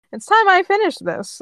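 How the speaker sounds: loud, high-pitched declaration; villain's threat. A narrator's reading. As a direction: announce the final blow. Villain announces final attack.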